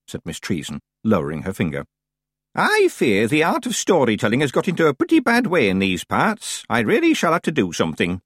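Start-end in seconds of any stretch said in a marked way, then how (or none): 2.5-8.2 lightly voiced old woman, pitched up; mildly put-out old witch lamenting; a touch of grand disapproval; old witch, vexed. Plays Miss Treason.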